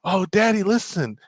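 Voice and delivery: high, eager little-girl voice, imitating daughter; chirpy child pointing out the song; kid's excited voice. Daughter at the hairdresser telling dad, child voice. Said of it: "and she goes".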